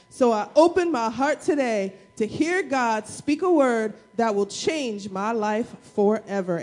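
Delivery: slow, measured recitation; church affirmation. Acted. Pastor leading church in affirmation, slow measured recitation. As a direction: recite it word by word like a creed. Let's say our Bible affirmation together.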